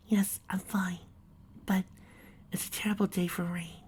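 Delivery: soft, shaky whisper holding back tears. Acted. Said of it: "replied with a shaky voice".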